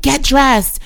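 a hint of a forceful mom barking an order; retold angry order. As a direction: snap at her son to get dressed.

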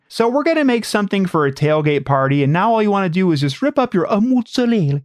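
lightly imitated TV chef, Italian on the last word; chatty cook with a showy Italian food word; Giada De Laurentiis. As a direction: play the cooking host, then flourish the Italian word. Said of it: "I feel like Giada De Laurentiis".

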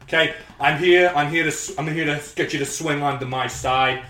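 lightly voiced Trump, boastful; a hint of Trump's brag; Donald Trump impression. Candidate pitching to voters, lightly done Trump. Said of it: "I'm Donald J Trump".

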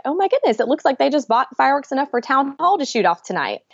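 high startled exclamation; amazed. Retold or imitated. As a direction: gasp it out in disbelief. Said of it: "I was like".

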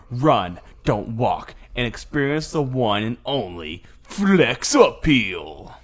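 snake oil seller. Pretend. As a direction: hype it like a fairground huckster. Mock sales pitch for beer.

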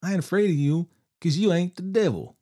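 high loud defiant shout; shouting defiantly. A narrator's reading. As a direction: yell it in his face. Billy shouts at the devil.

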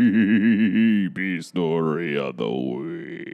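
slow, low announcer voice with a laugh; segment announcer. Acted. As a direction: announce the segment title grandly.

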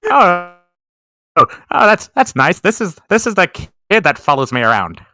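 lightly voiced old man, halting; mock-doddery grandpa introducing a kid; forgetful grandpa. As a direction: chat to a fellow grandfather, stumbling a little. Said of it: "me talking to another grandfather".

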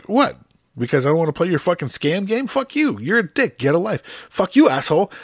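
high, heated re-enacted tirade; retold angry retort. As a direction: fire insults back, loud and high. Retold cursing match with scammer.

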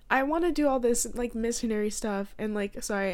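real tearful voice breaking; crying. Real, not acted. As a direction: talk through real tears. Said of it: "I'm crying if you can't tell by my freaking voice".

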